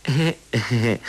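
simple-minded giggling; silly giggle. Acted. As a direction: giggle foolishly. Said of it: "傻姑嘻嘻笑了几声". (傻傻地嘻嘻笑)

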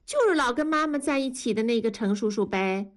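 put-on high, eager child's voice; little girl 改改. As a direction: play a delighted little girl. (高声童音，兴奋的小女孩)

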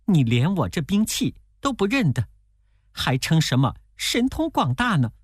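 a mildly voiced angry demon bragging of its weapon; through gritted teeth. A narrator's reading. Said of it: "那妖怪也咬牙切齿地说".

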